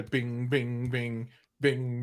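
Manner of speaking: softly voiced bing sounds in rhythm; rhythmic spoken chiming; imitated dance jingle. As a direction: mimic a meme tune with repeated bings. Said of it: "that dance where they go ding".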